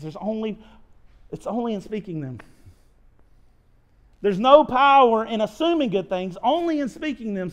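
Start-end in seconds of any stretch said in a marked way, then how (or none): 4.2-7.5 louder, punched second take of the line; emphatic repeat. Shown as a demonstration. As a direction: drive the maxim home louder.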